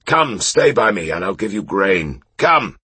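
high, coaxing tipsy call; coaxing drunk knight. Acted. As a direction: lure the horse in, a bit drunk. Coaxing his horse.

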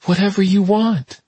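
high, dazed, bewildered. A narrator's reading. Tess giving in to the visitor, high and bewildered. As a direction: give in, sounding lost. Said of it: "returning to that bewildered voice".

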